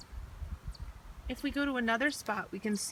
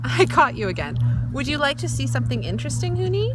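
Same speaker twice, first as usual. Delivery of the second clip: calling out; 6 semitones higher, 9 dB louder, faster than usual. Acted. Calling out over plane noise.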